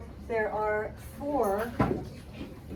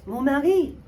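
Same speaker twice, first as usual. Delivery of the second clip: much louder, hammed-up suspicion; dramatic thinking out loud; 4 semitones higher, 13 dB louder than usual. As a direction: gasp it out like a soap-opera wife. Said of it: "thinking out loud".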